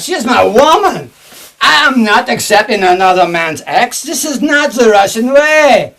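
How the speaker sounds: put-on hammy Russian villain accent; thick put-on Russian accent; fake Russian accent. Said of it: "as Russian as Donald Duck".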